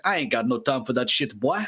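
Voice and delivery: mock a friend's Southern-accented English. Friend turning down a game today, imitated Southern accent. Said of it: "but in a Southern accent".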